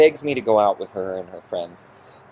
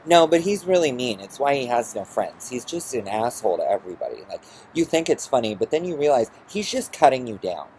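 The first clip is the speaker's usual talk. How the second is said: mimicking mother; 3 semitones higher than usual. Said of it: "she looks straight at me and she goes".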